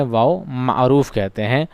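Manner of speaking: ordinary delivery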